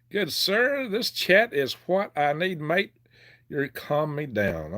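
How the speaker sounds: light put-on British lilt; mock British accent. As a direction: read it out as a hammed-up British gent. Reads chat as British character.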